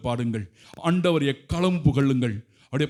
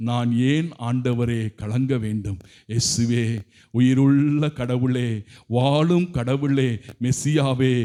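devout invocation. Real, not acted. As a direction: call on Jesus slowly. Lower, slow devout invocation.

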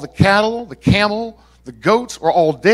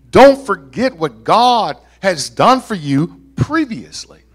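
raised, measured preacher's delivery; emphatic preaching; 4 semitones higher, 4 dB louder than usual. Real, not acted. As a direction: press each phrase home to the congregation. Preaches with force.

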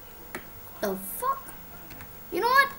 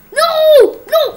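loud, high yelled no; real dismay shouted; laughing shout of no; 11 semitones higher, 14 dB louder than usual. Real, not acted. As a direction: yell no through a laugh.

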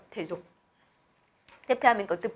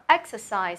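exercise stressed on EX; EX-ercise, said as a stress example; first-syllable stress. Shown as a demonstration. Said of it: "âm tiết đầu tiên".

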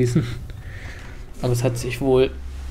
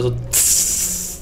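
hiss sound; 2 semitones lower, 4 dB quieter than usual. Retold or imitated. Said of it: "auf den Sand".

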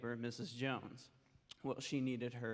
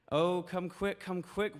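put-on high, louder panicked child's wail; 6 semitones higher, 6 dB louder than usual. Soaked daughter wailing for her mother, high panicked wail. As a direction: wail it like a soaked little girl. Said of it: "wailed Janet".

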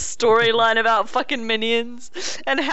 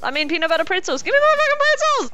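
angry yell; 9 semitones higher than usual. Real, not acted. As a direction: yell at the snack thief. Teammate eating her pretzels.

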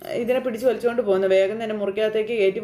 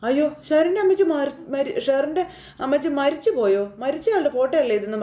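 shocked cry; 3 semitones higher than usual. Retold or imitated. Gracy sees a photo of the dead mother, high shocked cry. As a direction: blurt it out in sudden shock. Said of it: "ഗ്രേസമ്മ ഞെട്ടി".

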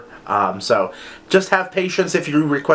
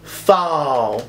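very slow, higher southern drawl; crazy southern accent; 6 semitones higher, much slower than usual. Retold or imitated. Imitating a TikTok guy reading signs, in a crazy southern accent. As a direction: stretch every word in a hammed-up southern twang. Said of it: "reads them in this ra-, crazy southern accent".

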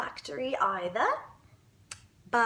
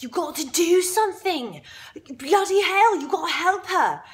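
mock parental outcry, raised a little; ganging-up parents; 4 semitones higher, 3 dB louder than usual. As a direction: imitate outraged parents demanding action. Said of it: "all the parents are, like, ganging up on Wonka".

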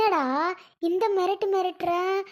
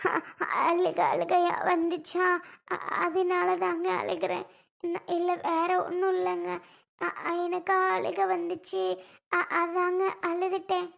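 crying. Acted. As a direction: sob out the excuse haltingly. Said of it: "இப்படி அழுகுற". (அழுதுகொண்டே திக்கித் திக்கிப் பேசுதல்)

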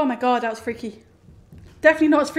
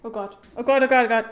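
terrified gibbering; 2 semitones lower, faster than usual. Real, not acted. Panicking under pursuit.

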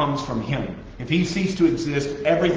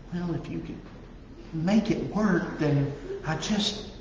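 mock doubtful prayer; 3 semitones higher, 7 dB quieter than usual. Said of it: "Stop talking like he has limited power".

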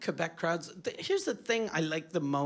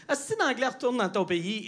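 angry Québécois slur; 3 semitones higher than usual. Retold or imitated. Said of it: "which is".

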